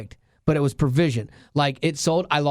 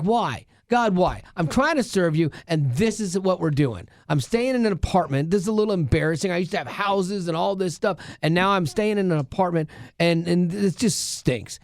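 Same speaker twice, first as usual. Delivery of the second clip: higher-pitched, exasperated pleading with God; mad complaint; 3 semitones higher than usual. Retold or imitated. Man complaining to God about his apartment, mad. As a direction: re-enact a frustrated rant, pitched up. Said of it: "I'm just mad. I'm just pissed".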